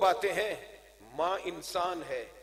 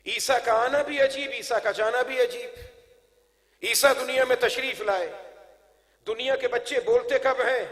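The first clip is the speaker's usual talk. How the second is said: emphatic, raised sermon voice; measured oratorical proclamation; forceful preaching; 6 semitones higher, 8 dB louder than usual. Real, not acted. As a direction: declaim it to the congregation. Preaches to a crowd.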